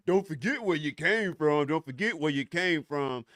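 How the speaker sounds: lightly mocking recital of a saying; rote, repeated saying, lightly mimicked; quoting a cliché. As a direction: parrot it like a tired slogan. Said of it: "these motherfuckers who go around talking".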